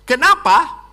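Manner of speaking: ordinary delivery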